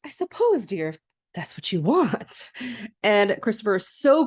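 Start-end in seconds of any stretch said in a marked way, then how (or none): 0.0-2.5 resigned queen. Retold or imitated. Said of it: "and she says".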